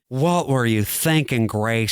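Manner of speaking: slow, lightly voiced disappointed rep; imitated union rep. Union rep from the clip scolding Grace, lightly imitated reproach. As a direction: stretch it out, dropping on the name. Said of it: "yours is way better than mine".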